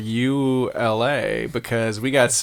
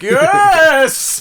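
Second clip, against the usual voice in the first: dark lord; 7 dB louder than usual. Pretend. Mock emperor in a chariot.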